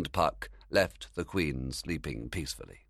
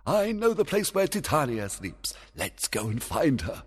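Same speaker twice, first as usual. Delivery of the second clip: fairy king voice; 9 semitones higher, 3 dB louder than usual. Acted.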